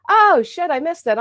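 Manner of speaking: high, loud startled outburst; sudden surprise. Real, not acted. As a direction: catch yourself having missed something. Missed a donation message.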